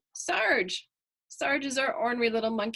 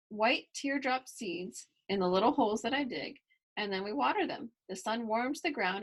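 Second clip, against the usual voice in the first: lively storybook reading voice; reading to children. A narrator's reading. Reader voicing Kylie's story for young listeners, lively storybook reading. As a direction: read it to the kids with bright energy.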